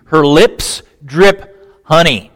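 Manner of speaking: slow, drawn-out, sensual reading; savoring. Shown as a demonstration. Preacher reading the verse to the congregation, slow and savoring. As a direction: let every word drip slowly. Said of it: "dive in with the sensuality".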